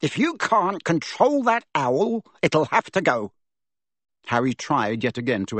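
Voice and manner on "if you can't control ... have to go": high, slow blustering threat; angry roar. A narrator's reading. Uncle threatening nephew about the owl, high and slow. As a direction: bellow the ultimatum. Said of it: "he roared across the table".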